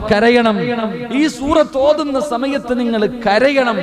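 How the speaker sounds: "കരയണം" called out high and loud, slowly insisting; loud command. Retold or imitated. Prophet urging companions to weep, loud and high. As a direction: proclaim "കരയണം" with full force. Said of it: "റസൂലുള്ള പറഞ്ഞു".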